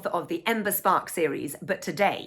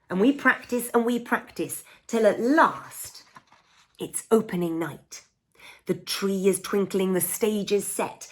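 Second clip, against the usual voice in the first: lively picture-book read-aloud; storybook narration. A narrator's reading. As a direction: read it to children, bright and playful.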